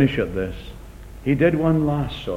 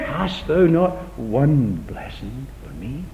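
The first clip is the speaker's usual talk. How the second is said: pleading Esau; slower than usual. Acted. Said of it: "Read it again".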